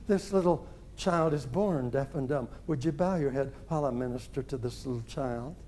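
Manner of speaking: unhurried, kind, softly firm; gentle and firm. Retold or imitated. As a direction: ease down into a quiet, measured request. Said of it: "gentle, quiet, nice, kind, firm".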